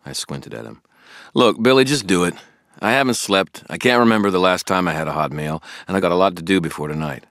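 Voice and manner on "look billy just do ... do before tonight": impatient. Acted. Harry losing patience with Billy.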